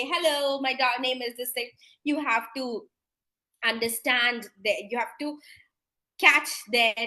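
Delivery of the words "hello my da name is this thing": mock cheerful. Shown as a demonstration. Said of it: "You can't just go and cheerfully say".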